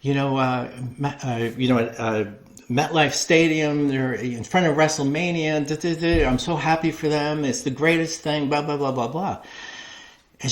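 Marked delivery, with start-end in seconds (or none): 0.0-9.4 mock cheery promo. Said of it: "she cuts this promo".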